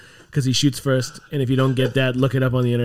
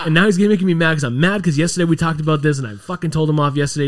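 mad; 3 semitones higher than usual. Real, not acted. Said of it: "I'm so fucking mad".

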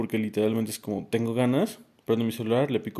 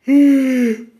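big loud yawn; 14 dB louder than usual. Real, not acted. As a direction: yawn out loud before apologising. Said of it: "Una disculpa".

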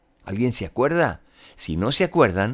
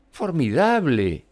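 exclaiming; 6 semitones higher, slower than usual. Acted. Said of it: "exclamó Elizabeth".

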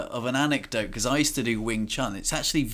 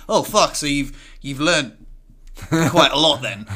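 floored friend; 4 semitones higher, 6 dB louder than usual. Retold or imitated. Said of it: "He's like".

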